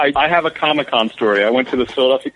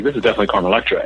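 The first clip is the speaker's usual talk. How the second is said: acting cool; 3 semitones lower, much faster than usual. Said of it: "act all cool".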